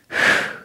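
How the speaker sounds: exasperated sigh. Retold or imitated. After the mom's frustrated yell.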